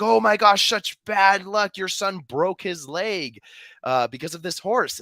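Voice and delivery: high, loud, slow fussing; dismayed neighbors. Retold or imitated. Neighbors lamenting the son's broken leg, high and fussing. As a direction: wail it like a dramatic busybody. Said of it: "And his neighbors are like".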